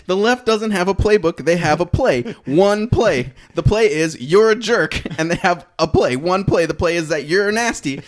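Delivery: mock his smug debate line; mocking Shapiro quote. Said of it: "his conclusion is".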